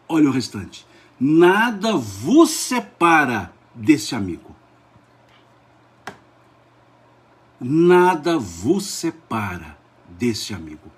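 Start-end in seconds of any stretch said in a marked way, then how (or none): 1.2-10.9 slow, emphatic declamation; leitura solene. Real, not acted. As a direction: stretch each word like a solemn promise. Emphatic repeated scripture reading. (declamação lenta e enfática)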